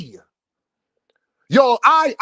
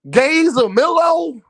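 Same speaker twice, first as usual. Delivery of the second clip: "Gays a Millo?" asked higher and slower in disbelief; incredulous question; 6 semitones higher, slower than usual. Shown as a demonstration. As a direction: toss "Gays a Millo?" up high like you can't believe it. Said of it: "listen to the syllables in that bitch".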